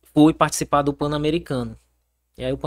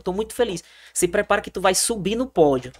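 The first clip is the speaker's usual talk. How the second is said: higher-pitched acted good news; understated, lifted quoted delight; retold happy coach; 4 semitones higher than usual. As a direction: lightly mimic a coach announcing good news. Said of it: "Ele falando".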